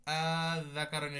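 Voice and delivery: আয-যাকারাইনে with the long madd held out slowly; slow recitation demo. Shown as a demonstration. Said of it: "এটা মূলত ইবদাল". (মাদ টেনে ধীরে আয-যাকারাইনে)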